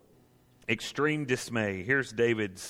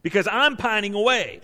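high, loud "I'm", pressed hard; stress on I'M; 8 semitones higher, 7 dB louder than usual. Shown as a demonstration. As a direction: punch the word "I'm". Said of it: "I think the emphasis word is the word "me".

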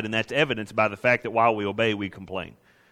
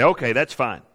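higher, mock-pious griping; a believer obeying through clenched resentment, pitched up; grudging complainer; 5 semitones higher than usual. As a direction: sound dutiful while clearly resenting it. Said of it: "but you say".

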